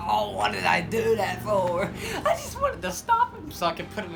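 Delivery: hammed-up wail, climbing very high; mock anguish. Officer banging himself on the ground, mock-anguished wail.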